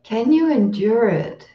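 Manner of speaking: "Can you endure it?" settling down at the end, "you" stressed; gentle sincere question. Retold or imitated. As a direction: ask "Can you endure it?" kindly, letting it fall, not dismissive. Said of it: "not said in a dismissive way".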